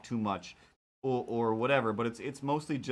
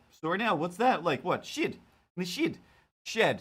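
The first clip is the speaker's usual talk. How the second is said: mock confused British repeating, pitched higher; baffled British hosts; 6 semitones higher than usual. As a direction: play it puzzled, as if the word makes no sense. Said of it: "And they're like".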